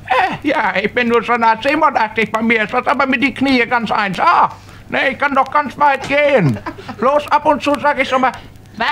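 put-on a half-deaf old man, chatty.

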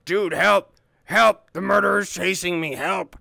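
hammed-up panicked cry for help; fake-panic calling for help; being chased. Faking being chased by murderer.

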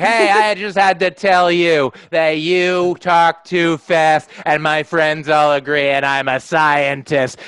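slow, mildly slurred; drunk woman again. Retold or imitated. Drunk woman repeating herself, lightly slurred and slow. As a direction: drawl it like she's tipsy. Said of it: "she's like".

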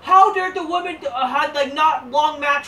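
hammed-up indignant shriek of a fan; mock outrage. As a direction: parody an outraged fan yelling. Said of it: "Spark's like".

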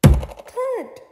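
big loud thud. A narrator's reading. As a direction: land it with a bang. Sound effect word.

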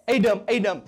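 loud double call; God crying out. Acted. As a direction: call Adam's name as God, loudly. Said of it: "God cried out".

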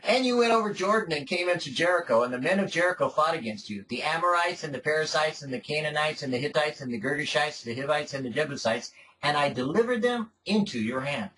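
measured, solemn Bible reading voice; formal, unhurried reading; scripture reading. Acted. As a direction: read the passage aloud to the congregation. Reads scripture aloud.

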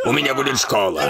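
shouting through happy tears; tearful joy. Acted. Overjoyed student shouting his dream aloud, tearful joy. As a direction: cry out with joy that the school is coming.

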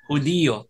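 Hudiyo as hu-DI-yo, stress on the I; correct Spanish stress. Shown as a demonstration. Teacher giving the proper word, Hudiyo stressed on DI. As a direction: say Hudiyo softly in three syllables. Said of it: "yun ang tama".

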